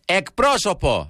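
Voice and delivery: slow, high, stretched call to the phone menu; drawn-out call for an operator. Retold or imitated. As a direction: draw out the word to demand a human. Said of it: "και λέω πάντα εγώ το γνωστό". (αργή, ψηλή, τραβηγμένη φωνή)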